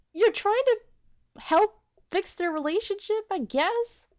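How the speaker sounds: real exasperated laughing scold; laughing exasperation. Real, not acted. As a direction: scold him through laughter. Exasperated laughing reaction at Momo.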